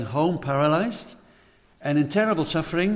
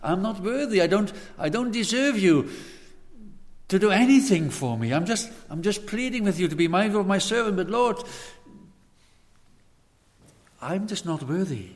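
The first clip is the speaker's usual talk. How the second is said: higher, earnest humble pleading; humble plea; 4 semitones higher than usual. Retold or imitated. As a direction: beg humbly, a little raised. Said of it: "He so clearly said".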